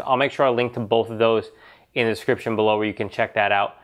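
stuffy nose, nasal tone. Real, not acted. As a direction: talk like you're getting over a cold. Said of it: "nasally voice of me getting over being sick".

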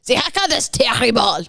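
German attempt sliding into French; French-sounding accent. Unhappy man on his haircut, French-sounding German. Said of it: "Oh, French".

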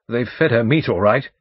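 loud, brisk barrister recalling names; blustering lawyer, chatty. Acted. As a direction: chat loudly like a self-assured old lawyer.

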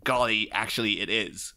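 lightly voiced mock politeness with a sarcastic edge; a hint of a snide businessman. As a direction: read it as fake courtesy, dripping irony. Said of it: "he kind of sarcastically says".

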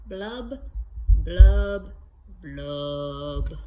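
fish blubs, the middle one burst out loud, the last low; fish blub sounds. Acted. Reading to kids, fish blubs with a loud burst. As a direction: pop the bubbles, one loud, one sinking. Fish's refrain read to kids.

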